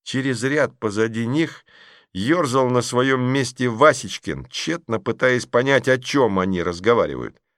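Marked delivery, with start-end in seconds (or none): none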